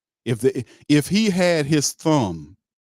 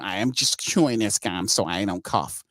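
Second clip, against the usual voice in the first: imitating Loomis; 4 semitones lower than usual. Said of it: "chewing on gum".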